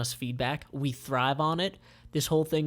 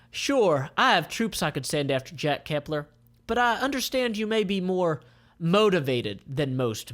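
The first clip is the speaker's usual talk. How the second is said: raised, louder commander; lightly voiced commander; Melek's voice; 5 semitones higher, 3 dB louder than usual. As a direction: needle him coolly. Melek character voice.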